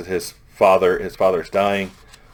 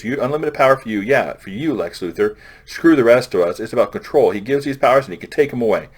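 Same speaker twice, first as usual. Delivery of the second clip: louder, higher, heated accusation; a protester calling Lex Luthor out, in a raised, angry voice; 4 semitones higher, 4 dB louder than usual. Retold or imitated. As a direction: rail against him like a fed-up protester.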